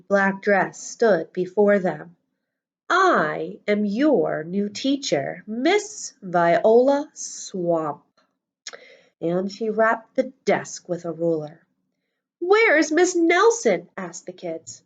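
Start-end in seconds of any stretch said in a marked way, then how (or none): 2.9-8.0 slow, severe schoolmistress voice; stern teacher. Acted. Strict new teacher introduces herself. 12.4-13.9 put-on high, slow, anxious child voices; worried kids.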